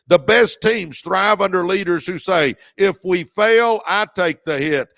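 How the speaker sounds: loud first take. Shown as a demonstration. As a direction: call it out to the crowd with force. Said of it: "Let me say that again".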